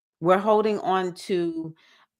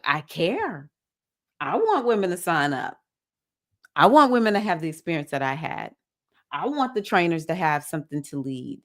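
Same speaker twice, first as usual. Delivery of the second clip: loving; 2 semitones lower than usual. Retold or imitated. Member retelling hard truth given to the CEO, loving. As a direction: say it with love and no venom. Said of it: "So I said it with so much love".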